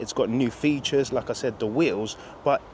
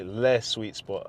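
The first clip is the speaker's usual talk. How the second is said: put-on French accent; 5 semitones lower, 3 dB quieter, slower than usual. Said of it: "as the French would say".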